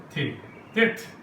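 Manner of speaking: تھے and تت said softly, slowly and breathy; quiet airy تت; letter sound demo. Shown as a demonstration. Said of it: "یہ آواز ہے توئے کی یا تے کی".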